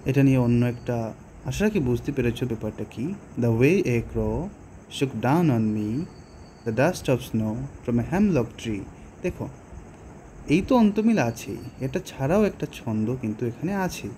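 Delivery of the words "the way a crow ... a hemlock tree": slow, measured reading with the beat on way, crow, down, me; slow rhythmic poem recital; metrical verse reading. Shown as a demonstration. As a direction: read the verse slowly so its rhythm can be felt. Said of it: "এটা তুমি পড়লেই, আহ, অনুধাবন করতে পারবে".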